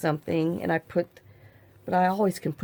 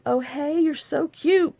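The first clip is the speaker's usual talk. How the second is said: put-on higher, sweet voice for the dog cooing at the baby; happy dog's thoughts; 9 semitones higher, slower than usual. Voicing the dog Maggie cooing over the baby, sweetly high. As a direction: coo it like a dog won over. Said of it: "was like".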